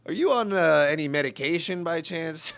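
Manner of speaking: mock-polite, hesitant probing question; retold condescension, lightly put on; condescending. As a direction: ask it with patronizing care. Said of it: "I decided to be condescending".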